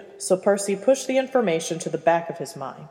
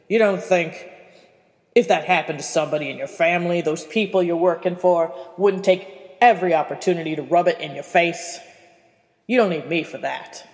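put-on gruff old man. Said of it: "one of the most abrasive people".

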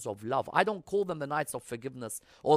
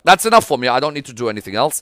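loud, self-satisfied dismissal; arrogant; 15 dB louder, faster than usual. Acted. Preacher mimicking someone who thinks he's done enough, arrogant. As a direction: declare it loudly, as if done with it all. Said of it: "I become arrogant and be like".

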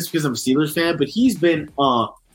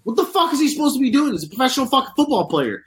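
higher, fast, heated rant; pissed off rant; 5 semitones higher than usual. Real, not acted. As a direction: vent about the fines, speeding up. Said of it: "I'm, I'm pissed".

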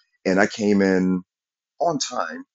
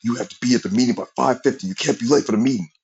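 loud whisper; 5 semitones higher, faster than usual. Retold or imitated. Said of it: "loudly whispers".

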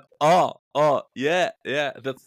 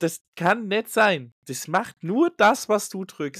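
belehrend nachgemacht; 8 semitones higher than usual. Retold or imitated. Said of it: "Du sagst".

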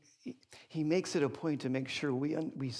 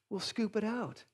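softer, deadpan calm reply, a bit higher; calm wife; 5 semitones higher, 4 dB quieter than usual. Retold or imitated. Wife answering her panicking husband, acted calm. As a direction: play the unbothered wife. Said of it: "She looks at me so calmly".

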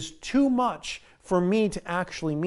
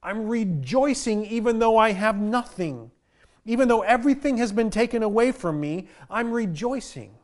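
rejoicing; 4 semitones higher than usual. Retold or imitated. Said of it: "crying out and saying".

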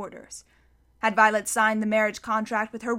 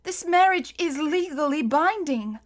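higher-pitched, sorrowful verdict; tearful; 5 semitones higher than usual. A narrator's reading. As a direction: deliver the bad news through tears. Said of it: "said through her tears".

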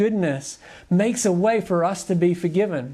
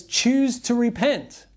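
Peter urging; 4 semitones higher, slower than usual. Retold or imitated. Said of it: "basically Peter says".

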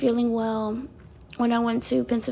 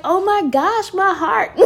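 laughing delight; 7 semitones higher, 5 dB louder than usual. Retold or imitated. Aunt overwhelmed by niece.

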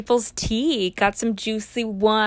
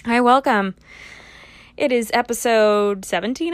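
loud greeting; 4 dB louder than usual. Acted.

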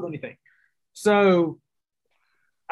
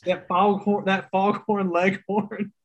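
laughing through it; chuckling while naming; 3 semitones higher, slower than usual. Real, not acted. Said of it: "Daniel Craig in Knives Out".

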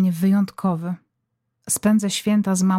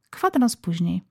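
ordinary talk, nothing marked

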